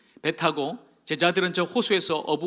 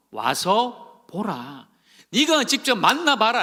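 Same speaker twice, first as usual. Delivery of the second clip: earnest urging; 2 semitones higher, slower than usual. Acted. Philip voiced urging Nathanael.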